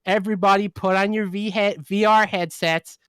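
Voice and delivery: hammed-up American office boss rallying the team; annoying American middle-manager accent. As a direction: put on a grating American corporate accent. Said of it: "that's my annoying American middle manager accent".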